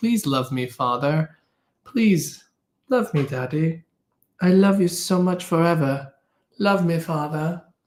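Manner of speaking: voice of a cat. Showing viewers a cat looking lovingly at the speaker: voicing the cat Hudson. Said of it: "And he's just like".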